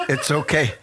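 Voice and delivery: okay said through a small laugh; chuckling reassurance to himself. Acted. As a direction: laugh off the rejection lightly. Shrugging off rejection.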